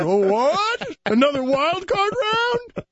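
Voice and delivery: high, hammed-up delighted fan dropping the pitchfork; mock swooning fan. Fan offers flowers to Roger, high giddy mock voice. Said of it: "I was shaking my torch and a pitchfork".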